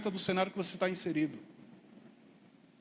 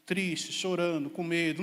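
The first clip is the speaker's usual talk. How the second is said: normal talking voice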